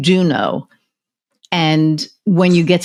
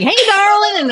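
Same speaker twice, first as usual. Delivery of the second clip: much higher, sing-song mock of a smarmy guy; mock sleazy client greeting her at a show. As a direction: greet her like a creep who thinks he's charming. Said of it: "and he's like".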